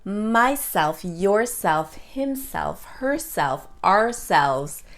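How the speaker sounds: mySELF, yourSELF, himSELF, herSELF, ourSELVES; second-sound stress. Shown as a demonstration. Teacher listing reflexive pronouns, stress on self and selves. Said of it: "the second sound is always stressed".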